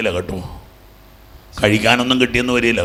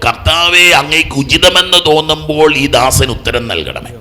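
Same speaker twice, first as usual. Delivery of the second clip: raised, drawn-out plea; fervent prayer; 4 semitones higher, 4 dB louder, slower than usual. Acted. Preacher models a prayer to the Lord, fervent prayer. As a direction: call out the prayer slowly and strongly. Recites a petition prayer aloud.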